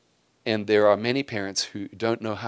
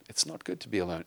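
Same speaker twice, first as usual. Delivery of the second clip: put-on "It's not good to be alone" said softer and lower, calmly to a child; gentle parental reply; 3 semitones lower, 6 dB quieter than usual. Shown as a demonstration. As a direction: answer the sulking kid softly. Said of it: "Kid says".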